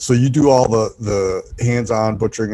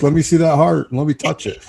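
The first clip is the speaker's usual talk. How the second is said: higher, eager curious voice; eager curiosity; 7 semitones higher than usual. Retold or imitated. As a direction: play someone keen to touch the heart. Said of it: "instead you're like".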